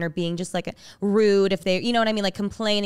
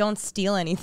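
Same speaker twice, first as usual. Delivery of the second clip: ordinary talk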